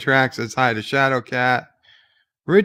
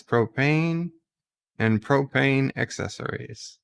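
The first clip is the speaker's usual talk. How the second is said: Hank Hill; 4 dB quieter than usual. Acted. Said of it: "This is a Hank Hill accent".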